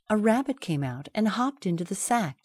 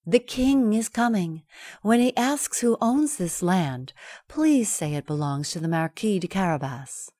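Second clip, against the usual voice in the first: cat's urgent voice. Acted. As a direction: hurry the farmers along. Cat instructs farmers.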